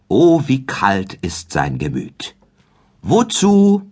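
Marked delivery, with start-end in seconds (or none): 3.0-3.8 high, louder drawn-out „Wozu“; „Wozu“ hoch und laut herausgestoßen; Kaspar asks. A narrator's reading. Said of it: "lauten seine Worte". („Wozu“ hoch und betont gefragt)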